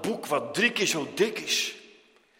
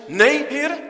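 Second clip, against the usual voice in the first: high, loud imploring cry; urgent plea; 11 semitones higher, 9 dB louder than usual. Acted. Moses crying out to the Lord, high loud plea. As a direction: beg the Lord not to leave. Moses refusing to let God go.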